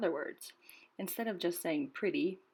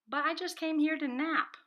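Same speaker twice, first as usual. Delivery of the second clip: higher, louder protest; protesting dog; 9 semitones higher, 5 dB louder than usual. A narrator's reading. Rocket protesting to the bird, higher and louder. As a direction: whine that you only came to nap. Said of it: "Rocket said".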